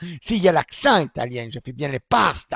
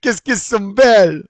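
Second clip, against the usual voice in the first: mock Italian accent; 3 semitones higher, 5 dB louder than usual. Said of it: "comment il a dit là?".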